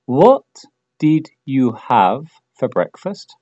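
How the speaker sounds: slow, careful, word by word; slow model question. Shown as a demonstration. Teacher models the question slowly for learners, slow and clear. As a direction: lay each word out slowly. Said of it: "dilo en voz alta".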